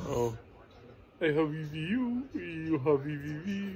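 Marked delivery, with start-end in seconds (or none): 1.2-3.8 put-on Indian accent. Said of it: "the Indian voice".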